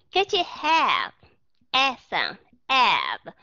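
"have" said with an open short a; short A demo. Shown as a demonstration. Teacher isolating the vowel in have. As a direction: stress the a in "have" for the class. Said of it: "Các bạn nghe cái chữ have nó có âm gì?".

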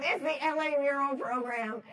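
retold screaming. Arts program caller gives applicant the good news, mock screaming. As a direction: imitate someone hollering the news slowly. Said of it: "They were, like, screaming at me".

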